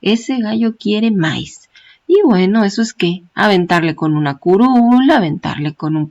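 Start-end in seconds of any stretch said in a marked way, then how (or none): 0.0-1.7 quiere said slowly with stress on "quie", not "quié"; quiere without accent. Shown as a demonstration. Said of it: "sin acento en la I, por favor". ("quiere" lento, sin acento en la i)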